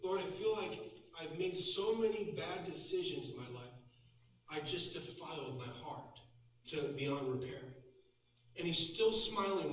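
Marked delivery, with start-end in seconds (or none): 0.0-7.6 sincere. Retold or imitated. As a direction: imitate a heartfelt prayer of regret. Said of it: "I just got sincere with him".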